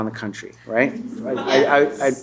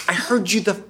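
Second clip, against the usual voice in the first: dry, deadpan retort; dry sarcastic; 4 semitones higher than usual. Shown as a demonstration. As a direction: throw it away, unimpressed. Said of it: "the way that American song was a little bit like Bill Maher".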